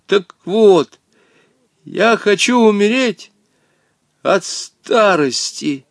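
high nervous voice, slowing at the end; gulp, then spring the trick slowly; nervous triumphant reveal. A narrator's reading. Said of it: "судорожно глотнул воздух". (нервно и торжественно)

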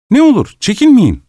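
urging. Acted. Host urging guest to eat.

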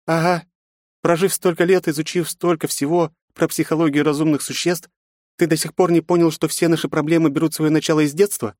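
high woman's voice, scornful scolding; a woman hissing contempt. A narrator's reading. Yufi scolds Pavel with contempt. Aunt lectures emperor.

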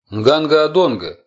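high, slow chanted call; drawn-out sung-out incantation; звучный напевный выкрик. Acted. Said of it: "звучно, нараспев, произнёс, почти выкрикнул". (звучно, нараспев, почти выкрикнуть)

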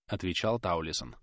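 ordinary delivery

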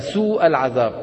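سوء with the vowel held for only two counts; short madd. Shown as a demonstration. Teacher demonstrates the wrongly shortened madd in سوء. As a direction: clip the long vowel in سوء. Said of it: "مد طبيعي بمقدار حركتين".

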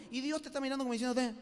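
normal talking voice

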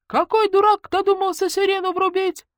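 high, loud angry shout; angry neighbour yelling at the culprit; yelling from the crowd. Acted. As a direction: holler it from the back of the crowd. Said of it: "заорали из рядов".

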